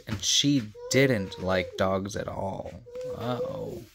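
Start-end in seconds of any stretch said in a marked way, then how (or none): 3.2-3.8 uh-oh. Acted. Reader reacts to Aunt Sarah.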